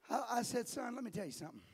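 chuckling through the words; laughing. Real, not acted. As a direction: laugh as you speak. Laughs while retelling.

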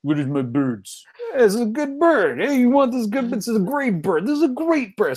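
put-on overdone movie-villain Russian accent; Mickey Rourke bad Russian accent. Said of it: "Doing the worst Russian accent".

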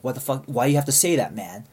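retold irritated challenge, loud on the key words; mildly heated, exasperated questioning; kinda heated. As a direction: imitate a cop getting annoyed. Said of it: "is getting kinda heated".

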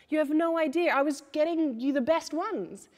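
mother's frustrated thought, playfully voiced; exasperated inner thought. Mother thinking at crying daughter, lightly exasperated. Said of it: "I think to myself".

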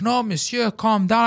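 high-pitched imitation of a secretary; high, put-on appeasing voice; placating secretary. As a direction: mimic someone urging calm. Secretary voiced trying to calm him.

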